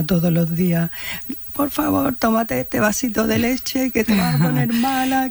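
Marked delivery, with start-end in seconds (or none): 1.5-5.3 higher-pitched imitation of gentle coaxing; kindly pleading policeman. Kind policeman urging a detainee to drink milk, retold pleading. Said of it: "debía ser muy buena persona".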